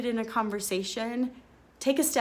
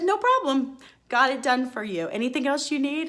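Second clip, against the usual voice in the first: bright, much higher and louder customer service chirp; breezy helpful agent; 5 semitones higher, 4 dB louder than usual. Retold or imitated. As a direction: imitate her quick cheerful fix. Retold cheerful agent solving it.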